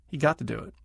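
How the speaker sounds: got to said gottuh, to kept as an unvoiced tuh. Shown as a demonstration. Teacher shows to staying tuh after an unvoiced sound. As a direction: keep got to crisp with tuh. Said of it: "After an unvoiced sound".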